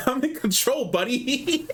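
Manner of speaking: a hint of New York accent; light New York accent, cocky. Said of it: "the most New York he's ever sounded".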